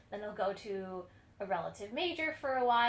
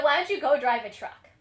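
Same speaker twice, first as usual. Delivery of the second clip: louder, higher, growing exasperated verdict; blunt rejection; 4 semitones higher, 12 dB louder than usual. Retold or imitated. Joshua loudly telling a would-be pupil he is unteachable. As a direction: tell him flatly he's hopeless, rising to a cry. Teacher dismissing the singer.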